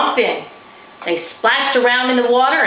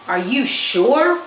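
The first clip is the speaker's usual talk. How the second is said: put-on young girl voice; 4 semitones higher, slower than usual. Girl character hesitates.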